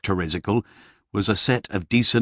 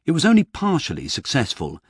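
usual speaking voice

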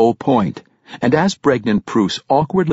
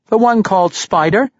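curious; 10 semitones higher than usual. A narrator's reading. Fishmonger answers curiously.

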